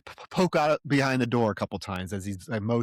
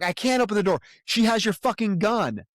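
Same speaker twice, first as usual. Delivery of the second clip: mock shout; 7 semitones higher, 3 dB louder than usual. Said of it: "Burnham's like".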